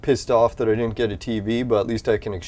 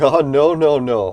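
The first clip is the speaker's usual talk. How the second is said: indignant refusal; 3 semitones higher, 6 dB louder than usual. Retold or imitated. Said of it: "I'm like".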